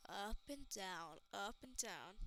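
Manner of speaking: quoting a reference. Pretend. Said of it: "I'm referencing something".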